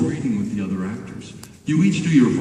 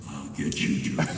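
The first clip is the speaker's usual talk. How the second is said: hushed, lower take; softer; 11 semitones lower, 8 dB quieter than usual. Shown as a demonstration. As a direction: pull the threat way down. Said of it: "Okay, little softer".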